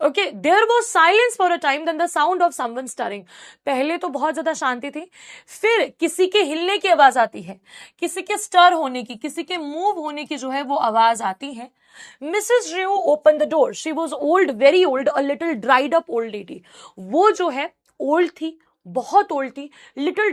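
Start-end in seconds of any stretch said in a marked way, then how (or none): 0.3-3.2 measured reading from the textbook; story read-aloud. A narrator's reading. Teacher reading the story to students, deliberate narration. 12.2-16.6 measured reading from the textbook; story read-aloud. A narrator's reading. Teacher reading the story to students, deliberate narration.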